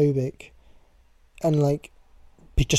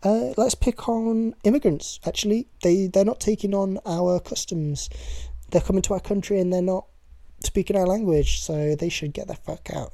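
mocking politicians; 4 semitones higher than usual. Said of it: "every day they're just like".

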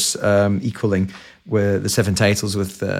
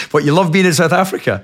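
playful disbelief; 8 semitones higher, 3 dB louder than usual. Real, not acted. Incredulous teasing reply, laughing.

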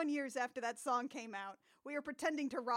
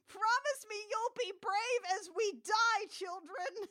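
high, mock-tragic last words; doomed farewell; 6 semitones higher than usual. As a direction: ham up a farewell before dying. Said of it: "incinerator scene in Toy Story three".

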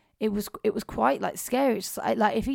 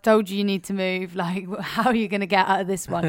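louder, laughing retold gloat; told-you-so; 5 dB louder than usual. Gloating at driver after crash.

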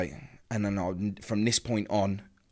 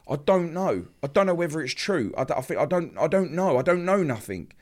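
higher, agitated, stumbling over repeats; retold flustered denial; 6 semitones higher than usual. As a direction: relay a flustered, insistent reply. Retold flustered reply to partner.

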